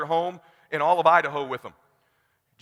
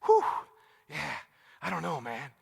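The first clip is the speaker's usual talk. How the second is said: mumbled, much softer, unsure; hesitant client; 3 semitones lower, 8 dB quieter than usual. Retold or imitated. A client mumbling doubts over the price, softly hesitant. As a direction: hedge it under your breath like a wavering client. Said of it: "Jordan sitting there go".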